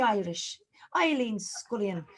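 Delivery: a faint, put-on Irish lilt on the name; bad Irish accent. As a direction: try an Irish accent on the name and barely land it. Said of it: "my ridiculously crap Irish accent".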